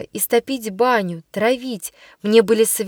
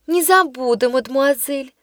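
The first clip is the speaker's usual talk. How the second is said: innocent tone; 2 semitones higher than usual. Acted. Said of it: "самым невинным тоном произнесла шалунья".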